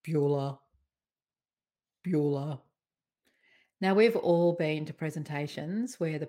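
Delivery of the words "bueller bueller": low, monotone teacher calling a name; droning roll-call teacher. Acted. Teacher calling the roll to a class, droning. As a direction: intone each name low and lifeless, with long gaps. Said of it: "where the teacher stands when he's doing the roll call".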